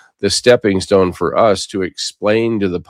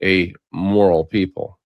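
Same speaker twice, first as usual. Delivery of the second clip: slow, moral drawn out and weighted; stress on moral; slower than usual. Shown as a demonstration. Host driving home moral to listeners, slow and emphatic. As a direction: give moral its full weight, slowly. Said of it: "I emphasize that word moral people".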